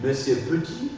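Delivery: Petit as "pe-tit", first E sounded; don't shorten Petit to "p'tit"; mute E pronounced. Shown as a demonstration. Teacher models a surname for student, Petit with E articulated. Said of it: "je dois articuler forcément".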